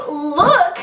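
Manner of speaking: high look through a laugh. Retold or imitated. Patient telling friend to look, laughing. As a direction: urge her to look, laughing. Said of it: "I'm like".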